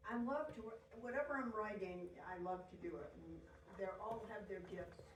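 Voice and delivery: talking while chewing; words around a bite of food; mouth full. Real, not acted. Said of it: "Sorry, I'm chewing on a".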